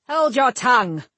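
high, loud snarling order; snarled. A narrator's reading. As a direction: snap him silent. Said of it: "Marrowick snarled".

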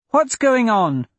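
put-on high, insistent child's question; young girl. A narrator's reading. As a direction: ask it as an anxious little girl. Young girl demanding an explanation.

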